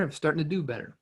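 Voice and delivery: usual speaking voice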